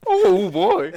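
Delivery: very high, loud walrus-like bellow. Pretend. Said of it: "it sounded like a walrus".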